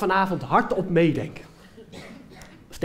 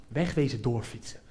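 inner panic; 6 semitones lower, 6 dB quieter than usual. Retold or imitated. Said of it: "mijn eerste reactie was".

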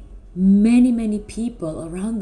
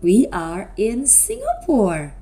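bright, drawn-out host voice; kids show host; 3 semitones higher than usual. Acted. Host quizzes children.

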